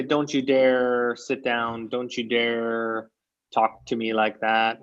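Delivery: strict warning. Shown as a demonstration. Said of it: "But it's very, very strict".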